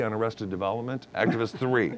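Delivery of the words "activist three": shouted credit. Shown as a demonstration. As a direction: call out "activist three" like a cheer.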